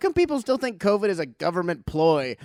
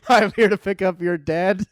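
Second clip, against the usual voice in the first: louder, laughing mock driver; laughing delivery guy; 3 semitones higher, 6 dB louder than usual. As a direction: announce it at the door, laughing. Voicing morgue truck driver.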